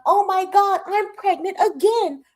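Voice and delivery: high, loud mock wail; Tierra. Vlogger mimicking Tierra announcing a pregnancy, high and loud mockery. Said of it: "Then she wanna be like".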